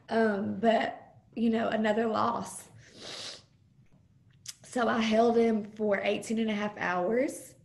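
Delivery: holding back tears while telling it; emotional. Real, not acted. Mother recalling holding her stillborn son, near tears. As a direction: voice on the edge of tears. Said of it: "I'm gonna get emotional".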